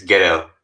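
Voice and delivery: "ghetto" with the T softened to a tap; American flapped T. Shown as a demonstration. Explaining American speech to co-hosts, "ghetto" with a dropped T. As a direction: say "ghetto" without a crisp T. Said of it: "they obviously don't say the T".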